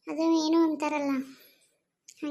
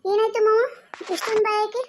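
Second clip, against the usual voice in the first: alarmed question; 4 semitones higher, 4 dB louder than usual. Acted. Asks uncle about his fear.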